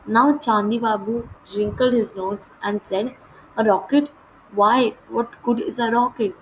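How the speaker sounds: measured, slow read-aloud of the English text; deliberate storybook narration; slow story reading. A narrator's reading. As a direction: read each phrase out slowly and clearly, like a lesson passage.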